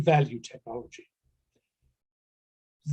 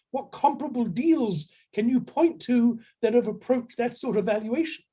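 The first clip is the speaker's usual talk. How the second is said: higher, mock exasperated questioning; impatient buyer; 7 semitones higher than usual. Buyers from California grill the seller, higher and impatient. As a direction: pile on the questions, losing patience.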